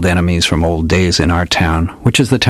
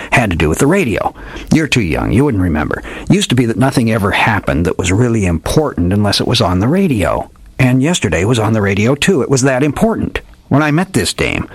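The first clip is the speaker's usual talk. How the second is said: higher, sonorous radio-drama detective voice; hardboiled old detective; 3 semitones higher than usual. Acted. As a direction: ham it up like an old radio gumshoe. Old detective tells his tale.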